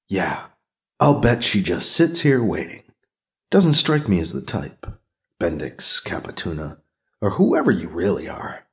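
low, skeptical thinking voice; inner monologue. Acted. Character's private thoughts.

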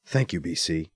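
softly. A narrator's reading. Anita thanking B C through tears, soft. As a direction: hold back tears. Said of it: "she says softly".

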